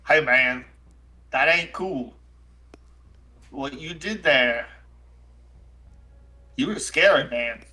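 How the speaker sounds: lightly voiced shaken, aggrieved character; a touch of wounded indignation; Jack O'Toole. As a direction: mildly reproach a friend who scared you. Game master voices Jack O'Toole.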